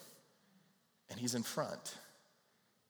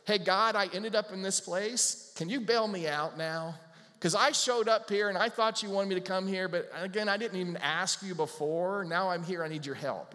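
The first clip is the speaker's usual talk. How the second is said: louder, pushy plea to God; pleading for rescue; 4 semitones higher, 4 dB louder than usual. Pretend. Believer lost off track asking God for rescue, louder and pushy. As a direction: demand a bailout, half-joking. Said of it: "get to a place and go".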